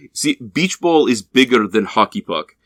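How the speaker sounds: put-on mild Eastern European accent, deadpan. Eastern European teammates explaining their joke, in accented broken English. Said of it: "getting insulted in broken English".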